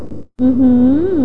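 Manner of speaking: muttered amazement. A narrator's reading. Old hunter marvelling at the woman's figure, muttered amazement. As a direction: draw out an admiring exclamation. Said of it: "พึมพำ ออกมาว่า".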